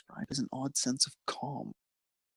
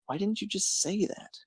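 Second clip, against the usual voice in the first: high teasing; 8 semitones higher than usual. Acted. Lance teasing Hunk, high pitched.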